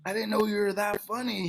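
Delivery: a touch of a surprised friend; friend's voice. Retold or imitated. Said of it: "he's like".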